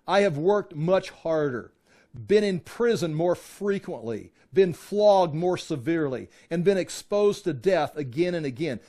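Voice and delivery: slow, emphatic listing of hardships; scripture reading. A narrator's reading. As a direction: read each hardship out with weight. Reads scripture aloud.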